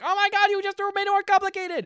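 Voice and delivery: high, loud, hammed-up wail; over-the-top melodramatic outburst; mock exasperation. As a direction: wail it like an overwrought romance heroine. Acting out her overwrought reply.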